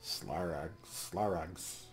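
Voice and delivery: lightly voiced hissing kobold; old kobold hissing. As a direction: hiss it like an ancient lizard elder. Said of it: "the old kobold hisses".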